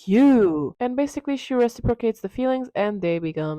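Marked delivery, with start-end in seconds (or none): 0.1-0.8 drawn-out, hammed-up romantic avowal; mock love declaration. Dorian to Sybil after her play, hammed-up adoration.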